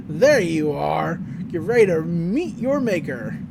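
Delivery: drawn-out mock cowboy threat; cowboy villain. Cowboy finding the twins, slow mock-menacing voice. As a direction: stretch it slowly like a menacing cowboy. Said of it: "and the cowboy's like".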